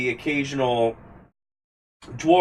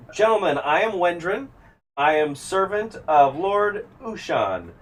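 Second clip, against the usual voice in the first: a lightly raised, formal courtly welcome; formal elf greeting; 6 semitones higher than usual. Acted. Elf servant welcoming the travellers to the regatta, lightly formal. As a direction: greet the guests as a polite servant. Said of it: "She says".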